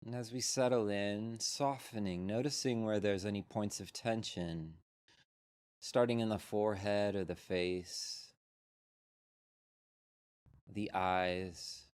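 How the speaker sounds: unhurried meditation guide with long pauses; measured, spacious mindfulness-teacher delivery; guided meditation. Real, not acted. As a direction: lead them gently into settling, leaving space between phrases.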